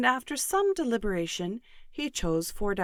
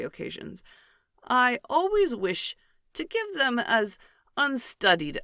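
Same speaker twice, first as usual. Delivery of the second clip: pompous Mr Collins. Acted. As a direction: puff up each word like a self-important parson. Mr Collins answers earnestly.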